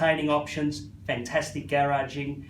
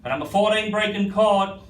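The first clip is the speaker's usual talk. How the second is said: rhythmic auction bid calling; auctioneer calling. Real, not acted. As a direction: keep the bids rolling.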